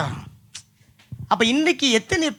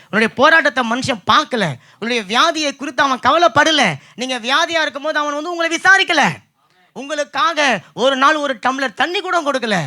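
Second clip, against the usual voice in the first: impassioned preaching; 3 semitones higher than usual. Real, not acted. Preaches a building list.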